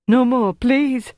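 high, drawn-out terrified begging; hysterical pleading. A narrator's reading. Tortured prisoner begs torturer for mercy, hysterical pleading. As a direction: implore in pain and fear, pitched high. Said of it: "he implored, hysterical with pain and fear".

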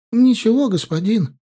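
high, loud, frightened repeat; a cornered boy insisting, scared; panicked denial. Acted. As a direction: blurt it out in sudden fear.

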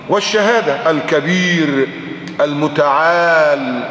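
slow, drawn-out chanted Quranic recitation. Acted. Preacher recites Surat al-Ra'd to his listeners, slow chanted tajweed. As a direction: stretch each word out in tajweed style.

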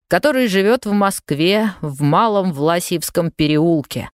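boy mimicking a solemn Soviet radio announcement; radio announcer. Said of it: "подбежал к зеркалу и начал". (мальчик у зеркала изображает диктора радио)

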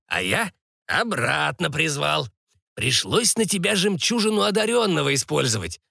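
lightly voiced old sorcerer, explaining; a touch of the creaky old man. Sorcerer explaining the soul spell, lightly voiced old man.

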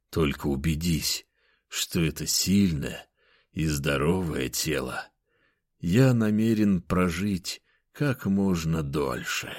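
hushed and unhurried, like a lurking ghost; eerie hermit voice. Acted. Hermit speaks behind him.

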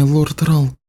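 high voice, "лорд Рал" said lightly; Samantha's voice. Acted. Samantha addresses lord Rahl.

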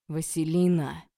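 loud, commanding roar of a name; angry bark. A narrator's reading. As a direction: bark her name to stop her. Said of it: "рявкнул Олег".

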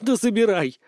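ожесточённо; bitter. A narrator's reading. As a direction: throw it out in bitter anger. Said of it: "ожесточённо сказала баронесса".

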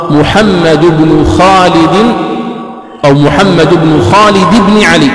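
بن said short "bnu" and "bni", linked; slow, careful "muhammadu bnu khalidi bni ali"; correct reading. Shown as a demonstration. Teacher modelling the right pronunciation slowly. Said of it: "هكذا النطق الصحيح".

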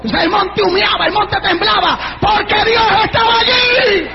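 stack the phrases, then cry out the last; fervent revival crescendo; preaching to a climax. Real, not acted. Preaches, building to shouted climax.

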